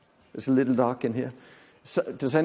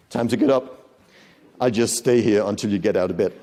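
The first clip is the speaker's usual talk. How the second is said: looming insistent demand; 2 semitones lower, 5 dB louder than usual. Acted. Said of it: "somebody comes up to you and say".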